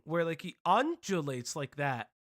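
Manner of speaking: lightly imitated measured cadence; measured, undulating speech. Shown as a demonstration. Streamer showing J F's odd speech, measured and undulating. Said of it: "weird measured speech thing".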